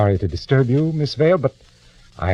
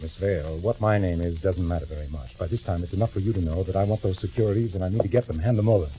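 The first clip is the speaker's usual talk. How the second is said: quiet menace; 2 semitones lower, 7 dB quieter than usual. Acted. Intruder quietly threatens her.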